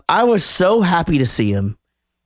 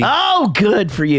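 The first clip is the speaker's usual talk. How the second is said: drawn-out sarcastic good for you, a little higher; mocking congratulation; 4 semitones higher, slower than usual. Mocking a friend who bragged, drawn-out sarcastic praise. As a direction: sneer the praise slowly. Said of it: "good for you (said again, more mocking)".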